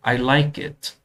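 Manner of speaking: "I like it" with pitch dropping on "it"; falling pitch at sentence end. Shown as a demonstration. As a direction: let the voice fall at the end of "I like it". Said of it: "pitch है वो down आती है".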